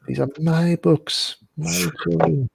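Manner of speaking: high, slow, hammed-up possessiveness; possessive bookseller. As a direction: play a shopkeeper doting jealously over his stock. Voices possessive bookshop owner.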